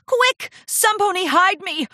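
high, loud frantic cry; panicked shriek. A narrator's reading. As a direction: shriek for somewhere to hide. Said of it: "Rarity shrieked".

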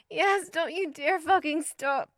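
high, loud, slow demand; breathless high pleading; slow insistent demand. Acted. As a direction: drag each word out, begging him not to stop. Demanding during climax.

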